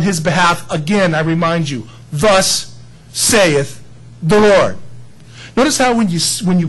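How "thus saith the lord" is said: slow, drawn-out pulpit declaration; solemn King James quote. Shown as a demonstration. Pastor intoning scripture to his congregation, slow and solemn. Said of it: "it's best to always quote the King James, 'cause it's authoritative".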